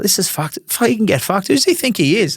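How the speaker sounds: high-pitched, indignant retold rant; retold fuming. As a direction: relive an indignant grumble, pitched well up. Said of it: "fuming one day".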